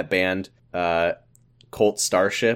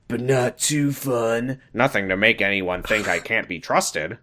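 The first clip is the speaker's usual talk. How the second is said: slow, put-on brooding teen boy; a lightly voiced moody boyfriend; Ethan voice; slower than usual. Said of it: "he has like five different voices".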